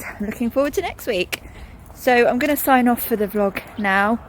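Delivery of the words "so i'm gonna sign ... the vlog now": slightly winded, walking home; out of breath. Real, not acted. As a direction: catch your breath between words. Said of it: "I'm out of breath as well".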